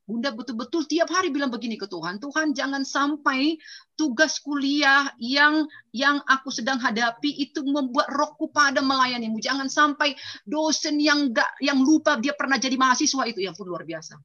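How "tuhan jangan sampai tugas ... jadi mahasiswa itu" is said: slow, higher pleading prayer. Retold or imitated. Mother praying over her coursework and lecturer, slow and pleading. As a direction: plead with God slowly.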